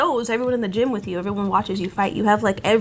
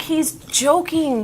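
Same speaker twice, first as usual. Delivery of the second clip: slow emphatic; 4 semitones higher, much slower than usual. Retold or imitated. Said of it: "And I'm like".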